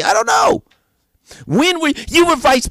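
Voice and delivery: mock the muddled answer, voice jumping high; mock confused old man. Mocking Biden's confused answer.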